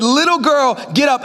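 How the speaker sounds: a lighter echo of the high command; commanding Jesus. Acted. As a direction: say it again with authority. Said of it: "He said".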